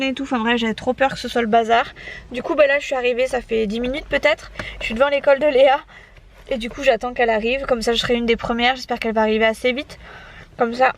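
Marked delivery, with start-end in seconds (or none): 2.3-10.9 talking while chewing gum. Real, not acted. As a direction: chew gum as you speak. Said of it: "j'ai mon, mon chewing-gum dans la bouche".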